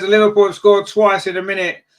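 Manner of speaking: loud, high burst as the goal goes in; excited goal call. Real, not acted. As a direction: erupt with real excitement at the goal. Goal just scored.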